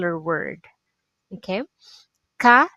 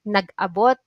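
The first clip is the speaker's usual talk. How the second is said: nag-abot rushed, stress late; said fast; 3 dB louder than usual. Shown as a demonstration. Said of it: "you must pronounce it fast".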